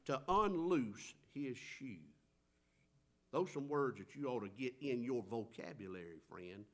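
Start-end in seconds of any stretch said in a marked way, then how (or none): 0.1-2.0 humble cry. Retold or imitated. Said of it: "And he said".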